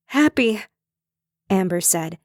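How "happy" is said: laughing through tears. A narrator's reading. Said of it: "laughing and crying at the same time".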